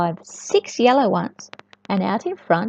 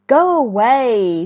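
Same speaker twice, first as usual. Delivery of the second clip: loud, slow scolding; cross hen; 6 dB louder, slower than usual. Acted. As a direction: shoo him off firmly. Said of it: "said the hen".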